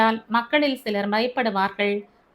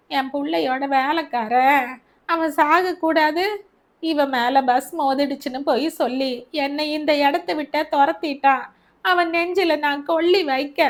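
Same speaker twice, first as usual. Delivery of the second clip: furious mother; 4 semitones higher than usual. Acted. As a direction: build to a furious curse. Mother's outburst.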